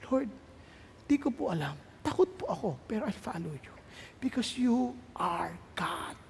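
very soft, hesitant surrender to God; timid prayer. Acted. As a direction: pray it low, with pauses, slowing at the end. Acted timid prayer, afraid yet following. (mahina at nag-aalangang panalangin)

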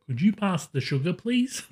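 lightly seductive, half-laughing; mock seductive request; sultry narrator. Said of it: "in my most seductive voice".

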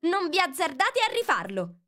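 high, loud warning cry; shouting. Acted. Alice warning the pebble throwers, shouting. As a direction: yell at them to stop. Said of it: "e poi urlò".

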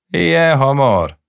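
high, loud, slow surprised question; the wife looks up, startled. Acted. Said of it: "nézett fel a felesége".

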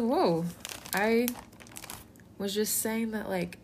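a touch of hurt shock, backpedalling; mildly taken aback, explaining yourself haltingly; Peter. Retold or imitated. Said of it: "Peter was a little bit shocked".

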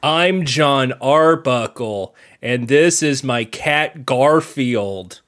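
low, calm serial killer voice; eerily calm, like a killer; calm psychopath. Acted. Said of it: "Why is he talking like a serial killer".

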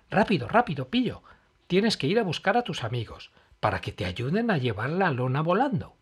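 hurried urging; urgent. Acted. Emma urges bird.

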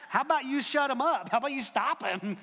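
panicked objection, hammed up a little; alarmed protest. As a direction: protest urgently, pitch jumping up. Acted protest to Jesus.

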